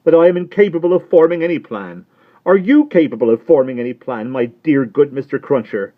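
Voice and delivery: high, loud, mildly weepy; tearful Miss Pross. Acted. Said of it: "wildly crying".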